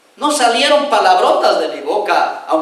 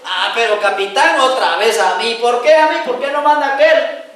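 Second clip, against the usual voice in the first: soldier grumbling at his captain; whiny complaint; 2 semitones higher than usual. Retold or imitated. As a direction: soldier whining to the captain, rising protest. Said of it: "me decía este amigo así".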